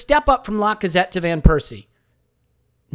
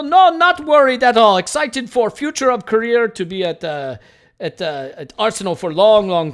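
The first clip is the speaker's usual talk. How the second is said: mock footballer interview voice; 2 semitones higher than usual. Host voicing Mustafi in interview.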